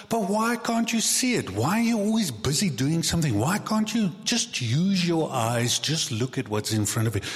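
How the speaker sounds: high, frustrated mock complaint at others; exasperated churchgoer. Churchgoer complaining about fellow members, frustrated and high. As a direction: whine about why they can't see it. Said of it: "we look at them and we go like".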